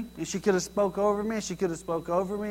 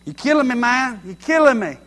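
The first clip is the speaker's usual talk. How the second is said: loud, higher, hammed-up complaint; mock exasperation; 4 semitones higher, 7 dB louder than usual. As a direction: cry it out like you can't take any more.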